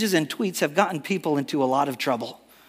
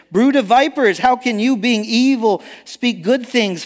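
raised, louder preaching rebuke; quoted rebuke; 6 semitones higher, 3 dB louder than usual. Retold or imitated. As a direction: deliver the quote as a forceful scolding, pitched up. Preacher voices Jesus rebuking.

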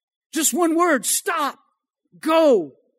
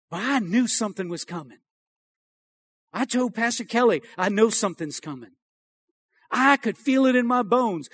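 hushed confiding; 2 semitones lower, 5 dB quieter than usual. Real, not acted. Preacher confiding a premonition to congregation.

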